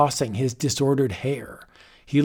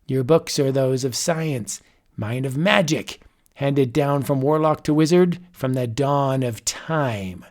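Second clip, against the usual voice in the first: put-on raised, amused old sorcerer; a gloating warlock, lightly voiced; mad wizard voice. Mad wizard addresses Richards.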